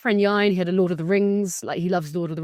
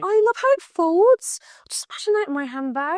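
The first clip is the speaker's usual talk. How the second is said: whispering; 11 semitones higher than usual. Real, not acted. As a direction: whisper it in awe. Admiring the folding planner.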